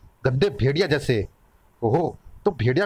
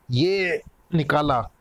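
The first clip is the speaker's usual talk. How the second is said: drawn out; much slower than usual. Acted. Slowly pulling out the thorn.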